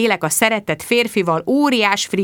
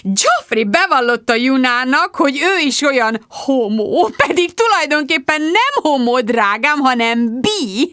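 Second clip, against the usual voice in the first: gossiping mum; 4 semitones higher than usual. Acted. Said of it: "Anyu fantasztikus volt".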